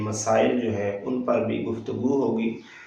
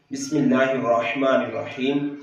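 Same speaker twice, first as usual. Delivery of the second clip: formal chanted recitation; tajweed recitation. Shown as a demonstration. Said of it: "एक मरतबा हम फिर इसको पढ़ते हैं".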